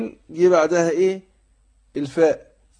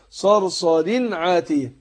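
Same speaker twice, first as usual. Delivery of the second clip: slow recitation; much slower than usual. Shown as a demonstration. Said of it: "ويسمى إظهار".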